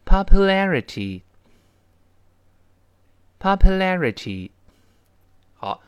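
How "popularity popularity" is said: slow, drawn-out syllable by syllable, loud; slow practice read of popularity for students; read slowly. Shown as a demonstration. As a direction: slowly sound out popularity with stress on la. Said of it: "那先慢慢读起来".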